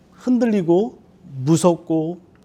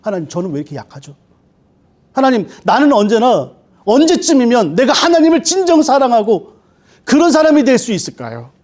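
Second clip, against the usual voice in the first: lament; 5 semitones higher, 4 dB louder than usual. Retold or imitated. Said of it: "죄의 원인이에요".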